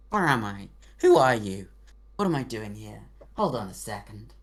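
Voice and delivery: lightly voiced, bewildered royal mouse; a hint of a puzzled, lordly mouse; confused authoritative mouse king. GM voicing the Mouse King, confused yet commanding. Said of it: "confused, quite confusing, but quite very authoritative voice".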